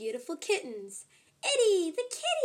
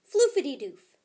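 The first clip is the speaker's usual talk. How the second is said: magic code; 7 dB louder than usual. Acted. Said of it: "said Itty".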